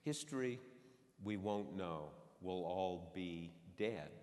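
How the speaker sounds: slow, shrugging delivery. Retold or imitated. Retelling the President's answer about history's judgment, shrugging. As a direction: quote it with a resigned shrug, drawing out the end. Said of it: "shrugs and says".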